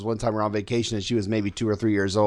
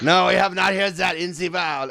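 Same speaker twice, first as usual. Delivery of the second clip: lightly put-on German accent, "wild" said as "väl"; playful faint German accent; mock German accent; 5 semitones higher than usual. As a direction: tease with a hint of a German accent. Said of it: "What, you German?".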